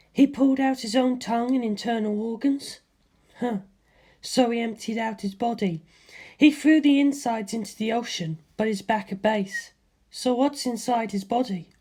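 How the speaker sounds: Lisa Lisa's voice. A narrator's reading. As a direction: voice the calm Hamon master, puzzling it out.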